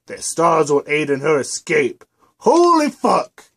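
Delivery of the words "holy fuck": much higher, louder, drawn-out cry of shock; shocked outburst. Acted. Twilight realizing Luna will escape, shocked outcry. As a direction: gasp it out in horror.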